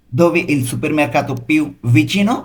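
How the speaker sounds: slow, careful Italian for learners; very slow model reading. Shown as a demonstration. Teacher models the phrase slowly for students. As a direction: spell it out slowly for the class. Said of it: "এটার Italian কী হবে?".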